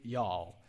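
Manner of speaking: y'all said low, falling, as a Texan would; y'all demonstrated. Shown as a demonstration. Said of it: "This is the word in Greek".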